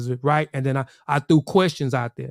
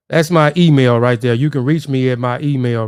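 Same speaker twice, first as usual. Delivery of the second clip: loud announcement; 7 dB louder than usual. Real, not acted. Announces email after spelling.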